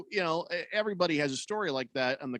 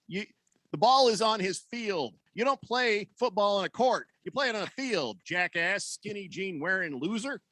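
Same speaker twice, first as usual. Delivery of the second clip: emotional rant; 5 semitones higher than usual. Real, not acted. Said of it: "I'm a little bit emotional".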